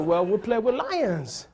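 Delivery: slow, deadpan lie; deadpan tall tale. Retold or imitated. Comic fooling the kid about lions, slow deadpan. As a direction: lay it on slowly and dry. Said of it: "I'm like".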